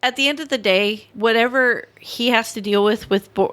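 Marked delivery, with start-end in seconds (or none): 1.1-3.5 tipsy speech with hiccups. Real, not acted. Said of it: "Those are, those are drunk hiccups".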